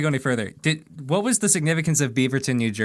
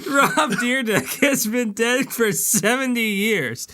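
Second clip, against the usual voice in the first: laughing; 4 semitones higher than usual. Real, not acted. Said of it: "Let me take that again".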